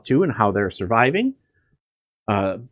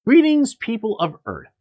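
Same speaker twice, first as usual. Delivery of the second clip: high, grand mock alien greeting; booming arrogant alien overlord; 11 semitones higher than usual. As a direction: hail the earthlings like a sci-fi invader. Host opens show with alien greeting.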